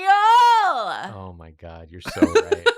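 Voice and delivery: high, slow mock amazement; mock realization. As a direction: overplay being convinced.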